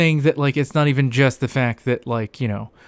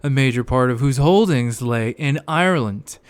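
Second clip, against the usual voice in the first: reading aloud in a put-on Scottish accent. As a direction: read the passage in a mock Scottish accent. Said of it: "my very authentic, uh, Scottish accent I was, uh, throwing around".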